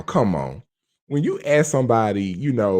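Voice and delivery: usual speaking voice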